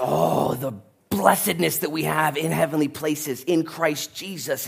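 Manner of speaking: rapturous praise. Acted. Acts Paul rapturously writing letter.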